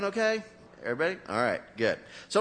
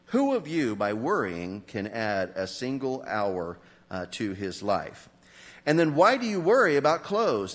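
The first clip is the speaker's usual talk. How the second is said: measured, solemn Bible reading to the congregation; scripture reading; 2 semitones lower than usual. Acted. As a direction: read the passage aloud with weight and care.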